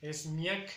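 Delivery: "miak" en una sílaba, "myak", con subida final; pronunciación correcta. Shown as a demonstration. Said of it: "después de repasar la pronunciación". ("miak" pronunciado "myak" subiendo al final)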